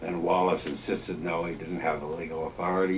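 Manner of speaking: ordinary delivery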